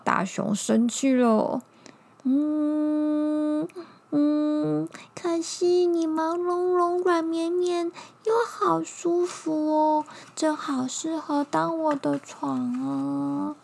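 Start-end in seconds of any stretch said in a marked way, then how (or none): 2.2-13.6 high, sweet little bug. Acted. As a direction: coax like a cuddly little insect.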